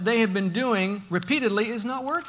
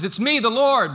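louder, higher voice of the Lord; the Lord answering; 4 semitones higher, 8 dB louder than usual. Acted. The Lord answers the man on the branch, calling down. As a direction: announce yourself loudly from on high. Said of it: "And the response is".

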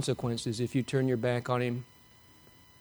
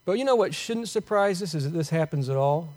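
ordinary talk, nothing marked

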